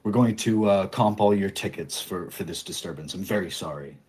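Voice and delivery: bow and scrape to the offended guest; apologetic clown guard. Acted. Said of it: "kind of say apology".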